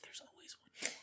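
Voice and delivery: whispered aside; whispering. Pretend. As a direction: drop to a secret whisper. Trailing off into whisper.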